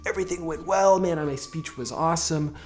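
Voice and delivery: buzzing with triumph after a great talk; excited self-talk. Retold or imitated. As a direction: crow about how well the speech went. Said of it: "I'd be like".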